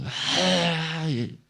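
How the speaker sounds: high mock scream, held back in volume; hammed-up "ay" cry; imitated devil scream. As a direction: imitate a devil's drawn-out shriek. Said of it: "Y gritando".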